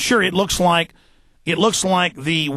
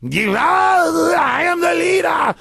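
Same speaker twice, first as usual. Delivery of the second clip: imitated screaming; 11 semitones higher, much slower than usual. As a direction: shriek it like a crank claiming to be in charge. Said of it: "This one guy starts screaming".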